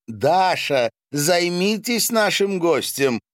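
high-pitched call to a servant. A narrator's reading. Host sends Dasha to the guest, calling out. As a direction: raise the voice in a summons.

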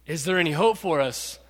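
low, subdued plea; deep regret. Acted. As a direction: ask it softly, with little hope left. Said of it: "with deep regret".

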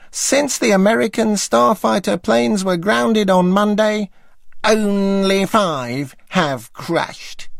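high, slow, deadpan drawl; David Frost drawl. Retold or imitated. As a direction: drawl it out, dead serious. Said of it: "drawled David".

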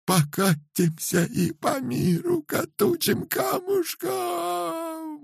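very high, slow wailing cry; keen over him in despair. A narrator's reading. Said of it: "выла над ним жена".

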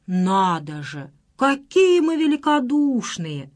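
slow, drawn-out sarcasm; a sneering, mock-impressed jab; sarcastic mockery. A narrator's reading. Boyfriend scorning his girlfriend, slow sarcastic sneer.

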